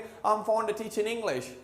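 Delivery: British-style 'um fonda teachin' English' run together; British connected speech. Shown as a demonstration. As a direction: link it all British-style, dropping the g of teaching. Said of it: "accent में इतने speed में". (British लहजे में मिलाकर 'अम फ़ॉन्डा टीचिन')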